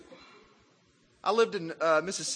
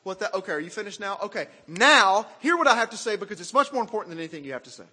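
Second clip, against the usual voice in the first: mock impatient interruption; 5 dB louder, faster than usual. Preacher mocking himself finally cutting someone off, louder. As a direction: cut in pushily, then rattle on. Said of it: "I'm kinda listening to them like".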